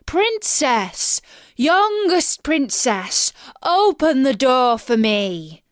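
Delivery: high, loud, drawn-out calling; frog crying out. A narrator's reading. Frog knocking again, calling the princess loud and high. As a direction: plead slowly and loudly through the door. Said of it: "it knocked a second time and cried".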